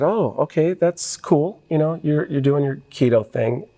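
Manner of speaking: lightly playing his wife brushing it off as a diet; voicing his wife. Husband quoting wife who shrugs off his keto plan, mock airy tone. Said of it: "My wife said".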